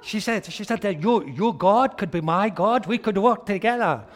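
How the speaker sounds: high, loud, fast, laughing; laughing retelling. Real, not acted. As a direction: tell it through laughter. Retelling her words, laughing.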